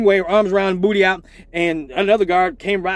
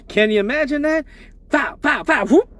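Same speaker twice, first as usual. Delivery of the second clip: excited; 4 semitones higher, faster than usual. Real, not acted. Excited imagining camera crew.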